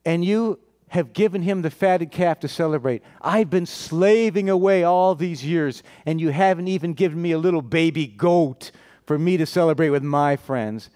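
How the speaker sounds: mildly acted aggrieved complaint; resentful attitude. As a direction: imitate a bitter elder son protesting to his father. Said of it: "So look at his attitude".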